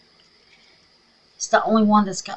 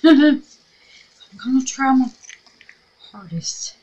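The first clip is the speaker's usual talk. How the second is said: whispering; 9 semitones higher, 9 dB louder than usual. Real, not acted. Whispered aside mid-task.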